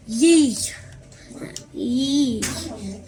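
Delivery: loud exasperated scoff. Acted. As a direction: scoff at his friend. Rip scoffing.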